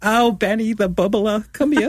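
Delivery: high-pitched doting Jewish grandmother impression. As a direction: coo over a grandchild like a Jewish granny. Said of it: "like a Jewish grandmother".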